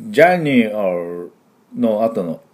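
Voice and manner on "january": January said slowly with a full e after nu; January, stretched slowly. Shown as a demonstration. Teacher slowly showing students the full vowel, stretched. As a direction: draw out January, voicing the e fully. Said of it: "この January の後の絵をしっかり発音する".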